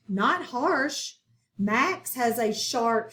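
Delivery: slow, deliberate reading with words set apart; read-along story. Shown as a demonstration. Teacher reading the story along with pupils, slow and measured. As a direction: read slowly so children can follow word by word.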